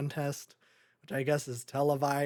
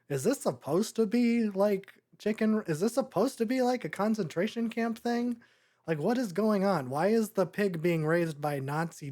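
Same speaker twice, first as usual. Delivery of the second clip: incredulous; 6 semitones higher than usual. Real, not acted. Incredulous rant about Nazi dogs.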